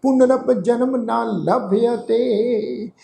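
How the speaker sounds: slow, drawn-out sacred recitation; scripture recitation. Shown as a demonstration. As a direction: recite slowly, holding the long vowels.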